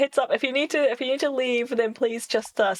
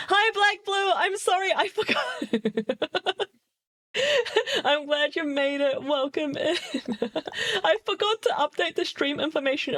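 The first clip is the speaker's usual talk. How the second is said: a hint of Valley Girl, higher; bubbly, higher valley girl greeting; 7 semitones higher than usual. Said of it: "Valley Girl voice that I'm doing a very bad job of".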